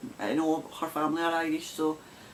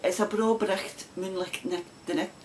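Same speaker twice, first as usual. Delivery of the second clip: broad Scots phrase; 2 semitones higher than usual. Retold or imitated. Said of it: "people will say".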